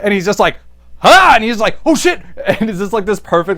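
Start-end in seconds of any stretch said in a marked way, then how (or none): 1.0-1.3 loud, high jump-scare yell; mock ambush cry; sudden "ha" shout. Villain springs out to surprise him. 1.9-2.2 startled, high and louder; acted startled yelp; mock surprise. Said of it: "like, surprise".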